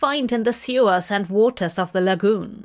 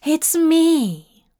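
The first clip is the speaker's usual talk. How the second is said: higher, louder eager call; 7 semitones higher, 4 dB louder than usual. Acted. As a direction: call out hopefully through the door. Aziraphale calls through door.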